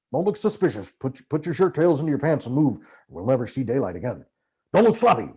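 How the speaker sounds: Hunter's voice, bossy. Acted. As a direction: rattle off instructions like a paranoid Hunter. Hunter giving escape orders.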